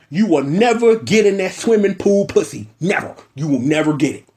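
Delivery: taunting never, settling down at the end; sing-song jeer at the stan; mock taunt. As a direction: rub it in, then flatten out. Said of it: "Let's establish that on the baseline".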